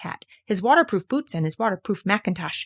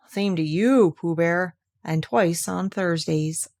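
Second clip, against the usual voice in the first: gloomy; slower than usual. Acted. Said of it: "said Eeyore gloomily".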